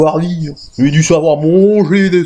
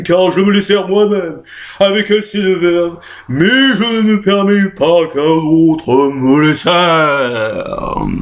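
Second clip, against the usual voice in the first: hammy stage actor; 3 semitones higher than usual. Acted. Stage recitation.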